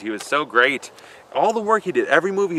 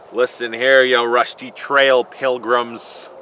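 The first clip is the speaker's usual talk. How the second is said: John Wayne impression; slower than usual. A mock John Wayne growling at a pilgrim, slow cowboy drawl. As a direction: drawl it out like an old Western hero. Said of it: "watched any John Wayne movies".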